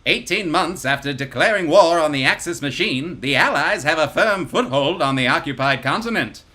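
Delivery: energetic fifties newsreel read; newsreel announcer. Acted. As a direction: boom it like a newsreel. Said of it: "energetic voice of a newsreel announcer".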